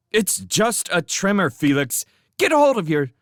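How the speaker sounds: high, loud and impatient; dismissive. Acted. Showen dismissively brushes off Felix's warning. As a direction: brush him off.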